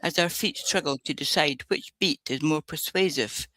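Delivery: measured poetry recital; poem reading. Acted. Podcast guest reading a poem to the hosts, measured recital. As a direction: recite the verse with a light touch.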